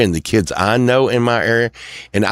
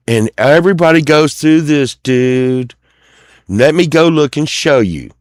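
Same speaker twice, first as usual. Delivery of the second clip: mock boss; 7 semitones higher, 4 dB louder than usual. Boss voiced, high and loud.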